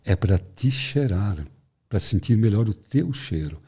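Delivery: lobo fingindo ser vovó, devagar e arrastado; lobo disfarçado de vovó. Acted. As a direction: estique as palavras como lobo disfarçado. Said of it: "o lobo travestido de vovozinha responde". (lobo se passando por vovozinha)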